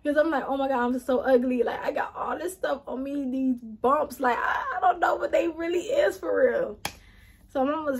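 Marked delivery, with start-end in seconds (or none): 0.5-6.8 retold crying. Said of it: "I just go to pouring down crying".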